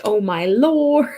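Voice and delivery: breathy whispered oh my lord; whispered panic. Retold or imitated. Panicking to chat, whispered. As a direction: gasp it under your breath in panic.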